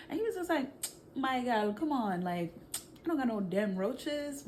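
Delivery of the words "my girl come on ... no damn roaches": put-on Jamaican accent. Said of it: "don't clock me on my Jamaican accent".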